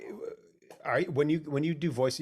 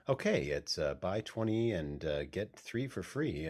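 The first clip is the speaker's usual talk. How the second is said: slow, low-key ad read with hesitations; natural, conversational read; 3 semitones lower, 3 dB quieter, slower than usual. Acted. Actor at the microphone faking a natural, conversational commercial read. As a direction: play at sounding casual, pausing mid-line. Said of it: "trying to sound natural and conversational".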